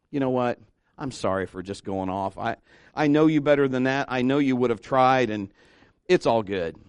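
low, softened, conciliatory; acted calm apology after venting; changed tone. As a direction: back down gently and make peace. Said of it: "his tone changed instantly".

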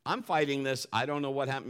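ordinary talk

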